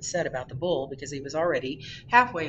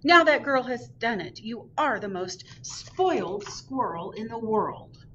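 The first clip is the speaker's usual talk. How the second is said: scolding mother; 4 semitones higher than usual. Acted. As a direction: scold him as a spoiled child. Mother scolding spoiled squirrel.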